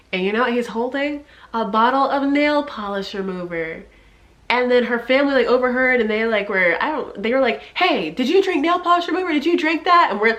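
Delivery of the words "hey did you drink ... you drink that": high-pitched, repeated shouting. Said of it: "her family's yelling at her".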